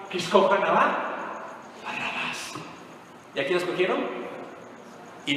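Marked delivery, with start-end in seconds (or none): 0.1-2.5 whispered prayer. Retold or imitated. Jesus praying quietly to the Father.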